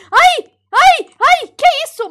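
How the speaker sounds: high startled yelps; scared shrieks. Real, not acted. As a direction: shriek in fright. Sudden scare.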